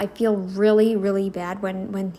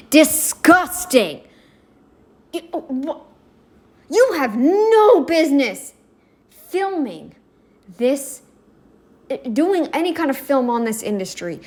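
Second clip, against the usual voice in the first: real anger spat at the man on screen; angry tirade. Real, not acted. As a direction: tear into him word by word. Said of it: "it makes me mad".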